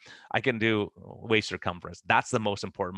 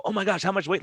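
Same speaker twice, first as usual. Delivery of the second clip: amazed question; 10 semitones higher than usual. Retold or imitated. People amazed at his results.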